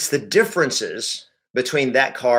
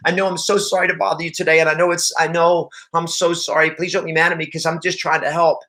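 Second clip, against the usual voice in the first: higher, pleading, fast apology; soft apologetic agent; 4 semitones higher than usual. Shown as a demonstration. Weak agent apologising to an upset seller, pleading. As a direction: grovel and apologise too much. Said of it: "if you go soft and you try to go the other direction and console them".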